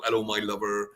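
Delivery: light West Country twang on a greeting; a gentle hint of West Country, friendly; West Country accent. Shown as a demonstration. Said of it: "I can do a West Country accent quite well".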